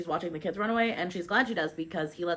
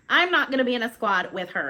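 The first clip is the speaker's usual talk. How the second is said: raised, louder protest; indignant refusal; 4 semitones higher, 5 dB louder than usual. A narrator's reading. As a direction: object hotly to the squad. Character refuses her squad placement.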